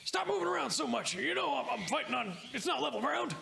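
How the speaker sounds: high-pitched, whining excuse-maker; complaining henchman. Acted. Guard blames uneven ground for his missed attack, high-pitched protest. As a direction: protest the miss in a high character voice. Game master voices Jonesy complaining after missing.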